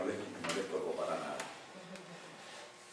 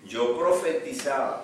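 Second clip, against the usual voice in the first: protesta indignada; 5 semitones higher, 8 dB louder, slower than usual. Retold or imitated. Rejected man lists his deeds.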